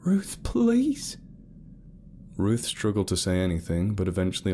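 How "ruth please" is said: whispered, desperate please. A narrator's reading. Carol whispering a desperate plea to Ruth. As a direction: breathe the plea to her.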